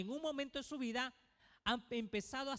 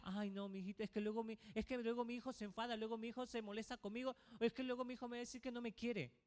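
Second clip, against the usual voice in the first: a hint of a fretful parent, quick and softer; fearful parent; 4 dB quieter, faster than usual. Parent afraid of upsetting the child, quick and soft. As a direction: hurry through the excuses, softer.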